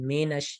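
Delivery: مینش said as "may-nash"; majhool mispronunciation. Shown as a demonstration. Teacher shows the spoiled reading, majhool "may-nash" in مینش. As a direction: open the first vowel of مینش to "ay". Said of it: "اس سے تلفظ خراب ہو جاتا ہے".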